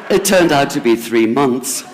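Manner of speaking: laughing through the words at her own mistake; a real chuckle running under the line. Real, not acted. Self-mocking confession of hubris.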